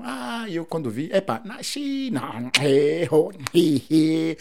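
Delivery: high, sing-song Mozambican Portuguese exclamations. Shown as a demonstration. Showing an interviewer the musical Mozambican sounds, high and sing-song. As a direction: fling out the Mozambican sounds, pitching way up. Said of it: "D'où ces, tous ces sons".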